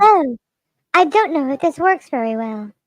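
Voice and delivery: talking with nose pinched; nasal pinched voice. Shown as a demonstration. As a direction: pinch your nose and speak. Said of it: "Pinch your nose when you talk".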